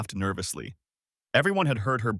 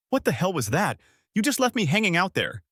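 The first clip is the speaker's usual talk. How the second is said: angry hiss; 7 semitones higher than usual. A narrator's reading. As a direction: hiss it at him, furious. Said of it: "she hissed".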